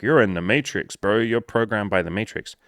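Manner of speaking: lightly hammed-up preachy bro; half-hearted imitation of a ranting influencer; Andrew Tate rant. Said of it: "do an Andrew Tate rant here and be like".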